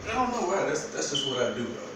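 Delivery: straining while sitting down; groaning with effort; effort grunt. Real, not acted. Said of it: "grunting and groaning like I'm old".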